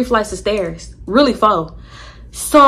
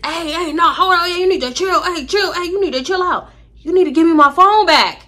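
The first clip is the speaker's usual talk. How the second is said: high, urgent mock protest; retold alarm; 7 semitones higher than usual. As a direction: call out to calm someone down, reenacted. Retold alarm as rock is raised.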